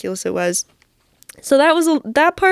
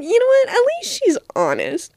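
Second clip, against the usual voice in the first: amused; 13 semitones higher than usual. Retold or imitated. Amused quip after rejection.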